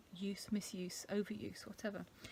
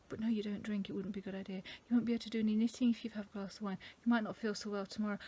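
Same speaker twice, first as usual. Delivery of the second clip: quick, higher self-scolding; stern inner voice; 3 semitones higher, faster than usual. Acted. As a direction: rattle off the sensible reasons fast. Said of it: "having that argument with myself".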